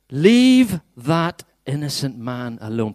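slow, drawn-out plea with a long LEAVE; wife's message. Acted. Preacher acts the wife's message to Pilate, slow plea. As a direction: stretch it out as an urgent message from a wife. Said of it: "Pretend I'm the wife, but it's a message".

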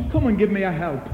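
a rising complaint to God; complaining to God. Retold or imitated. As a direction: fret at God until it bursts. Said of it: "We say to the Lord".

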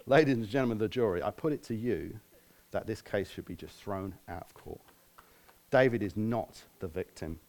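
mock courtroom lawyer address; passionate closing argument. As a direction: play a lawyer addressing the jury. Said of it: "So here is my closing argument".

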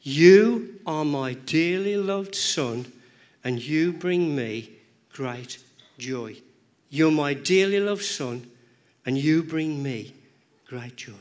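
slow, tender father's voice; gentle blessing from heaven; voice of God. Acted. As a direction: speak it slowly as a loving father. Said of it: "And this voice says".

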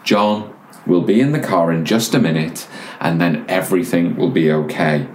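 understated, soothing reassurance; lightly voiced patient father, keeping it even; very calm dad. Dad over and over as the boy kicks, very calmly. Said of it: "the dad was very calmly saying".

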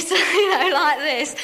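a real laugh breaking through the words. Real, not acted. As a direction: laugh as you tell it. Laughing while telling of neighbours.

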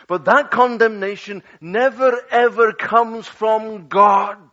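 loud, rising declaration ending on God; preaching at full force. Acted. Preacher to congregation, booming full-force preaching. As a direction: thunder it out to the pews.

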